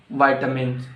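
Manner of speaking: "Vitamins" as VY-tuh-mins; American VITAMINS. Shown as a demonstration. Teacher giving the American form, "Vitamins" as VY-tuh-mins. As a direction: say "Vitamins" starting like "vie".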